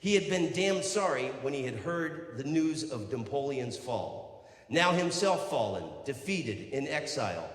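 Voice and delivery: projected, measured recital; declaimed book reading. Acted. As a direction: read it out grandly to a crowd. Reads aloud from a Byron biography.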